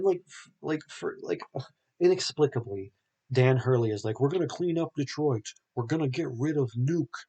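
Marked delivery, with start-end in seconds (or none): 4.2-7.2 higher, declaiming politician voice; mock campaign promise. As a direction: promise the crowd a clean city. Dan Hurley's anti-drug speech.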